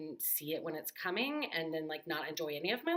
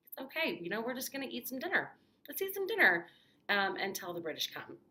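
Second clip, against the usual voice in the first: higher, sing-song coaxing; bright higher reassurance; 5 semitones higher, 3 dB louder than usual. Retold or imitated. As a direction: coax him in to dinner like a child. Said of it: "would eventually just be like".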